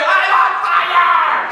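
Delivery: high, slow mock shout; frenzied cry. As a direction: imitate someone overcome, drawing out the words. Acts out girl still shouting.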